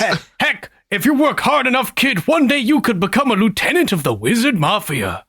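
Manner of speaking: a touch of salesman's patter, lilting; lightly voiced mafia recruiter. Wizard salesman encouraging a kid to join, lightly voiced recruiter.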